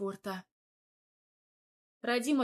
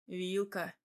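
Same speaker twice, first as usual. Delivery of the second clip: tender; 2 semitones lower than usual. Acted. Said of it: "как-то сильно уж ласково проговорил".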